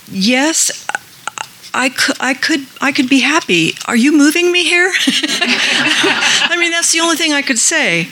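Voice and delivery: high giggly yes through laughter; laughing. Retold or imitated. Retelling her surprised answer, laughing and high.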